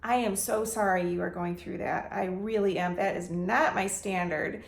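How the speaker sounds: calm them with real sympathy; sincere apology. Shown as a demonstration. Landlord soothing an upset tenant on the phone, gently. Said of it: "And I will say".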